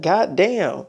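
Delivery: slow, exasperated goddamn; drawn-out goddamn. Retold or imitated. She's fed up with people saying her name, slow goddamn.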